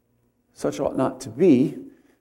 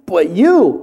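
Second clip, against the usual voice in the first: you hit higher and louder; stress on you; 4 semitones higher, 7 dB louder than usual. Shown as a demonstration. Pastor contrasting frail man with God, stressed you. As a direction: throw the weight onto you. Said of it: "in contrast".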